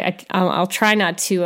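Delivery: ordinary delivery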